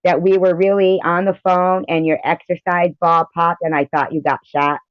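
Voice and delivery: high, exasperated disbelief; exasperated retort. Real, not acted. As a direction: talk back as if to a fool. Exasperated retort to played clip.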